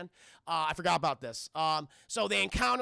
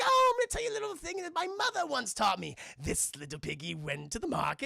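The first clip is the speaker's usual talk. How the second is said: taunting leprechaun; 6 semitones higher than usual. Retold or imitated. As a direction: toy with a victim, starting high. Leprechaun taunts with nursery rhyme.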